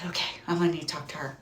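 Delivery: fast, hushed under the breath; whispering. Retold or imitated. Quiet demand to leasing girl.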